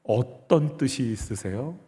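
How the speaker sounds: soft demo prayer. Shown as a demonstration. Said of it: "삼십 초 드릴게요".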